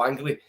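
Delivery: "angry" slipped into "angly"; mispronounced "angry". Real, not acted. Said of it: "Ang-, angry?".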